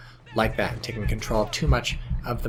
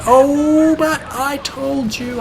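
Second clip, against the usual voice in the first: high, slow, sing-song gloat; mock told-you-so; 14 semitones higher, 8 dB louder, much slower than usual. Caster teasing the viewers over his call, slow high sing-song gloat.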